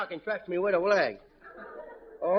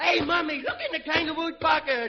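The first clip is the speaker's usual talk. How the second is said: calling out; 5 semitones higher, slower than usual. Acted. Kid calls out to mother.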